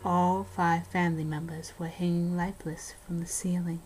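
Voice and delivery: hushed ghost-story telling, dropping to a whisper at the scary parts; spooky story narration. Acted. Host reading a haunted house story to a co-host, spooky narration. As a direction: tell it like a campfire horror tale.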